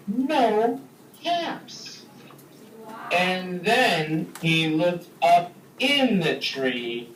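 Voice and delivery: lively read-aloud story voice, big pitch swings; storytelling for kids. A narrator's reading. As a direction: tell it like a picture book to a class. Reads story to children.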